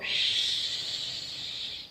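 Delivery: soft unvoiced shh; imitating a shush. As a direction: hush like the whole class. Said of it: "the students all go".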